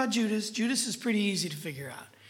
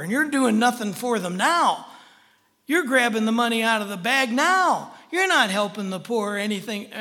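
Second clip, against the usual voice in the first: mock scolding, punching the ends; getting after him; 4 dB louder than usual. Jesus rebuking Judas over the poor, forceful scolding. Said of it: "He really got after him".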